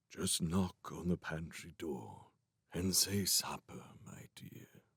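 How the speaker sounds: very quiet, faint, gentle, kindly far-off murmur. A great-uncle answers the children's question about supper: very faint, kindly voice. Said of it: "The kindly voice was very faint now".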